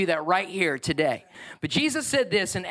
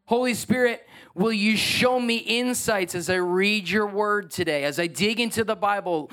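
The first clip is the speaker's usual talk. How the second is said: sample prayer; 3 semitones higher than usual. Shown as a demonstration. Pastor modelling a morning prayer for the church, earnest. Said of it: "it kinda looks like this".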